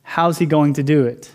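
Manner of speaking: gentle, curious "How's he going to do it?"; kind question. Shown as a demonstration. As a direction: ask "How's he going to do it?" kindly, with wonder. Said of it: "Mary has a kind posture".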